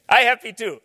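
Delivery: laughing dealer. Retold or imitated. Dealer laughing after deal.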